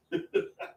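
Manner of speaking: short, soft chuckle; laugh. Real, not acted. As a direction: chuckle to yourself. Laughs about mowed lawn.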